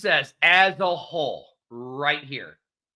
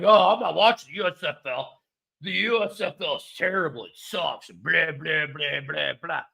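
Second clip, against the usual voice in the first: mock dismissive fans; 3 semitones lower than usual. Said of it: "we're all like".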